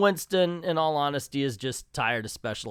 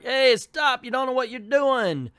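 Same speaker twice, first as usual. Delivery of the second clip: high, raised mock shout; alarmed warning; 11 semitones higher, 6 dB louder than usual. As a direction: call out urgently to stop them, hammed-up. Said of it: "Ghostbusters are like".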